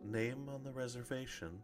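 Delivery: sultry, soft, calm, composed female voice. Game master voices a Kenku host greeting the party at the entrance; sultry, calm female voice. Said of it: "you hear a kind of sultry, calm female voice that says".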